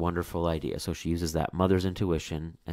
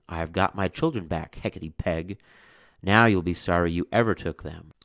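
triumphant mother. Acted. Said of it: "the mother cried".

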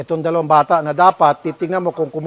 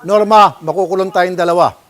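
imagined firm line to partner; 7 dB louder than usual. Retold or imitated. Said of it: "sana sinabi mo".

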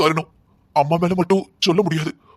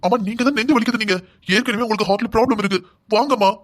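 anxious pleading; 5 semitones higher than usual. Acted. Mother faking heart pain, son begs.

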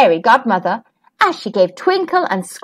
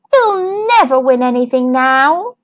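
sighing. Acted. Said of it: "sighed Twinkle".

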